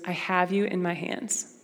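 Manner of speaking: a calm, hushed promise; gentle voice of God. Retold or imitated. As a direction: say it tenderly and slowly. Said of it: "he goes".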